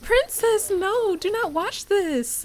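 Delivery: high, loud cry at the pet; panicked shout. Real, not acted. Owner shrieking at her dog Princess to look away. Pet watching Sims woohoo.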